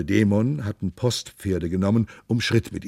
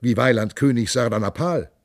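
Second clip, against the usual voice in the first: high, sneering mockery of a timid idea; mocking scorn; 4 semitones higher, 5 dB louder than usual. Count Raufdegen mocking old Wismund, sneering and loud. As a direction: scoff at the old knight's caution. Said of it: "höhnte Graf Raufdegen".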